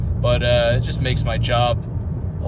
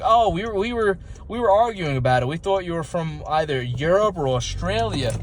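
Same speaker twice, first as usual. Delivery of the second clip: higher-pitched quoted voice; imitated curious stranger; 5 semitones higher than usual. Someone explaining they argued over his origin, imitated high voice. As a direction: mimic someone else in a raised pitch.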